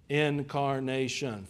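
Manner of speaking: "Incarnation" slowly drawn out, each syllable given room. Shown as a demonstration. Preacher defining a theological term, slow syllable by syllable. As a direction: spell out the four syllables of "Incarnation" by ear, slowly. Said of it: "four-syllable words".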